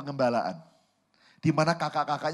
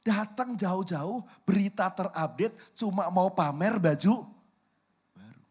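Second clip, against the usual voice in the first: incredulous, drawn-out mock complaint; irritated brother; 3 semitones higher than usual. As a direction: throw the boast back, slowly and indignantly. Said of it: "sebel nggak?".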